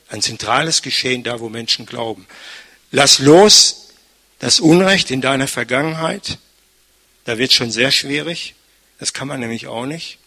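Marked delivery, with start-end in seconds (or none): 2.9-6.4 loud, ringing command; preaching shout. Acted. Preacher calling the congregation to let go, loud. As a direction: call it out to the whole hall.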